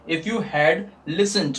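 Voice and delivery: very slow, each word spelled out; teacher dictating slowly to students; slow dictation. Shown as a demonstration. Students ko dhire-dhire likhwate hue. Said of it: "teacher dictates English slowly".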